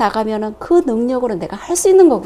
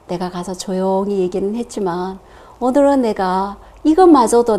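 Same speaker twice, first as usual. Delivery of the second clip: humble surrender prayer; 3 semitones lower, 5 dB quieter than usual. Retold or imitated.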